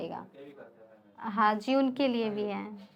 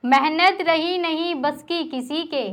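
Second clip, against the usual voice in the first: declaimed verse, each line repeated with more force; poem recitation. Acted. Poet reciting angry verse to a live audience, impassioned recitation. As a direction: recite the shayari, building on the repeat.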